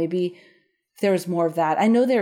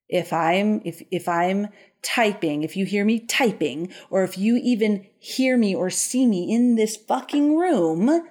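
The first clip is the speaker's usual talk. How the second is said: retold angry outburst; 3 semitones higher than usual. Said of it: "he tells her to get the fuck out".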